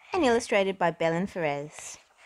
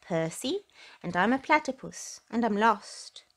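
in one breath; 2 semitones higher than usual. Acted. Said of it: "managed to say in one breath".

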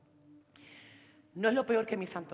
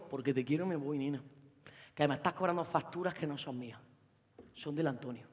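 quiet goodbye; 7 semitones lower, 8 dB quieter than usual. Retold or imitated. Lolo breaking up with her.

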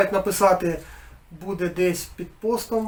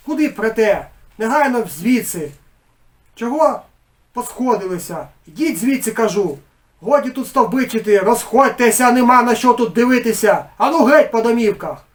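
angry shouting; 4 semitones higher, 9 dB louder than usual. Acted. Head drives villagers out.

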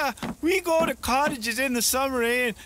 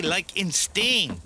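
"stain" drawn out, ay vowel stretched; slow demo; 5 semitones lower, much slower than usual. Shown as a demonstration. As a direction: teach it slowly word by word. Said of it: "No, eh".

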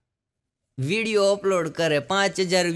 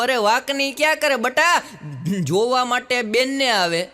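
scolding father; 4 semitones higher than usual. Acted.

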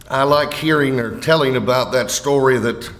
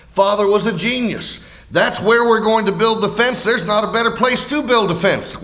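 higher-pitched, eagerly approving son; enthusiastic agreement; 5 semitones higher than usual. Acted. Sons agreeing on where to build the fence, enthusiastic agreement. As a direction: play a son all for the plan.

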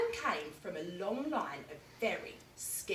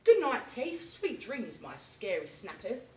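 tender goodnight; 3 semitones higher, 4 dB louder than usual. Acted. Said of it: "Alan would say".

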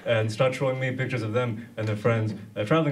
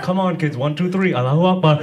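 put-on loud, raised call to the children, louder on the last words; mock photo shoot call; 5 semitones higher, 7 dB louder than usual. Comic imagines rounding up British schoolkids, loud mock rallying call. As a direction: round the kids up for a snap, then bellow it.

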